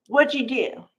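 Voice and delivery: mildly accusing question; accusatory. Retold or imitated. Kane confronts Phyllis at the door, accusatory. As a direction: put it to her as a light accusation. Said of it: "All accusatory".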